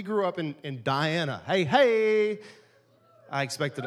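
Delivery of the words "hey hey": loud rallying hey, higher; hey shout. Real, not acted. Preacher hailing hometown folks from Diana with a loud hey. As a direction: call out to rally the crowd. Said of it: "that was to elicit a response".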